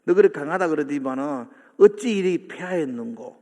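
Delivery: mock taunt at the fallen; lightly jeering, as if scolding a braggart. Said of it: "바벨론을 조롱하는 거예요". (살짝 비꼬며 조롱하는 말투)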